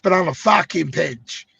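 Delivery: put-on a weak, half-hearted Brazilian accent, slow; bad Brazilian accent, drawn out slowly; failed Brazilian accent. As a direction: try a Brazilian accent and miss. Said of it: "Sorry, I can't do a Brazilian accent".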